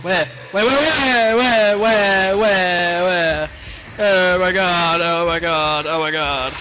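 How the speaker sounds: frantic, searching in fear; panicked where-where chant; scared horror game streamer. Real, not acted.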